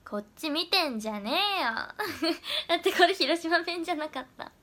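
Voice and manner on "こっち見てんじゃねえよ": playfully domineering put-down; mildly hammed-up bossy scolding; mock sadistic. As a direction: toss off a pretend sadistic line. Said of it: "広島弁でド S のセリフしてください".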